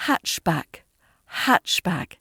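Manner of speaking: "Hatchback" with weight on HATCH, falling on back; first-syllable stress. Shown as a demonstration. Teacher modelling a word from the dialogue, first-syllable stress. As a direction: hit the first part of "hatchback". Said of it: "putting that stress on the first part".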